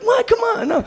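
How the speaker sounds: very high, whiny protest; refusing the owner, high childish squeal; childish whine. Retold or imitated. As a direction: squeal it like a sulking kid. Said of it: "like a child".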